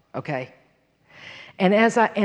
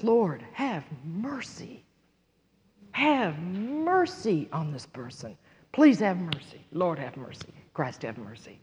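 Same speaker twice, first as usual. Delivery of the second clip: soft, slow prayer sinking to near-silence; hushed plea for mercy; 2 semitones lower, 8 dB quieter than usual. Retold or imitated. Woman prays for the one who hurt her, hushed plea for mercy. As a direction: plead gently, fading away on the last repeats.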